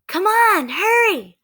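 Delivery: very high, pleading cry; urgent plea. Acted. Annie urging Jack out of the treehouse, high and pleading. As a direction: hurry him, almost whining.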